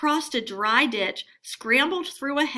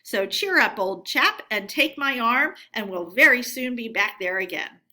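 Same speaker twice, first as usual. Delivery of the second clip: firm encouragement; 3 semitones higher, 6 dB louder than usual. Acted. Rat firmly encouraging Mole.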